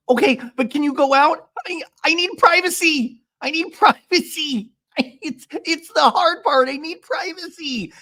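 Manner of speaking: very high, pleading mock wail; Shannon. Recapper mimics a housewife begging for privacy, high mock plea. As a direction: draw out a hammed-up high plea. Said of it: "Shannon goes".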